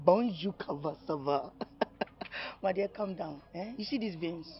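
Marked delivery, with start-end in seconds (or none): 0.1-1.5 French greeting. Acted. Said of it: "French people will say".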